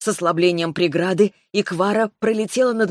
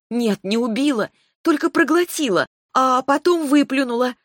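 excited insistence; 7 semitones higher than usual. A narrator's reading. Heroine insists, rising excitement.

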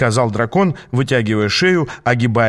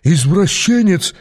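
raised, slowed shocked gasp; gasped insult; 7 semitones higher, 3 dB louder, slower than usual. A narrator's reading. Bandit leader gasps an insult at Aas, shocked. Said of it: "ахнул вожак".

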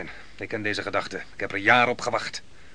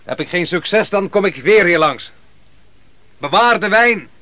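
higher and louder, tossed over the shoulder; calling back; 7 semitones higher, 8 dB louder than usual. Acted. Barak calling back to Jaël as he leaves, loud. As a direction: call it back cheerfully as he rides off.

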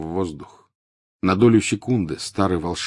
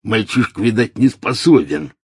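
scornful Death Eater; 4 semitones higher, 6 dB louder than usual. A narrator's reading. Amycus scorns Draco.

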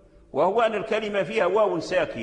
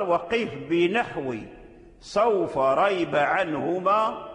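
ترتيل النظم؛ إنشاد بطيء ممدود للبيت؛ رتّل البيت ترتيلًا هادئًا؛ إنشاد بيت الشاطبية بتمهل; much slower than usual. Acted.

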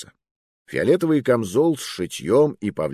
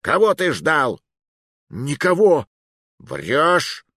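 higher, louder threats; menacing interrogation; 6 semitones higher, 4 dB louder, slower than usual. Acted. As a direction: press him hard. Interrogation at sword point.

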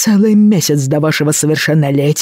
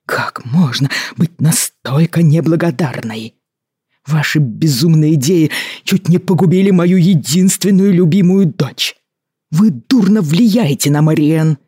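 indignant, raised angry lecture; stern angry governor; 3 semitones higher than usual. A narrator's reading. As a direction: scold her like an outraged guardian. Governor scolds ward. (гневная отповедь губернатора)

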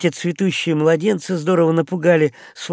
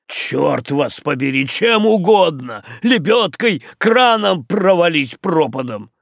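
angry yell; 2 semitones higher, 4 dB louder than usual. Acted. Captain yells at boatswain.

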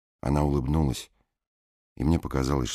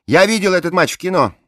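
gushing blonde woman; 13 dB louder than usual. A narrator's reading. Bleached blonde rhapsodising over her dead boxer, high and loud. Voiced character line.

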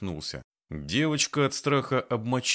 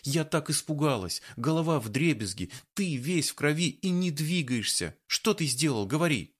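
tearful; 6 semitones higher than usual. A narrator's reading. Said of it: "Вытирая слёзы".

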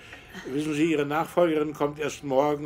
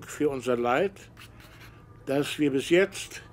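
measured dictation, phrase by phrase; dictating. Acted. Professor dictates statement to secretary.

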